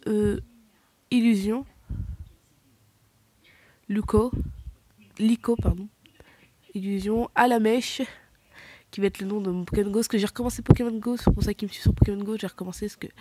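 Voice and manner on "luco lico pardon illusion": names murmured unvoiced; whisper. Real, not acted. Listing her team for viewers, whispered. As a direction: whisper it to yourself.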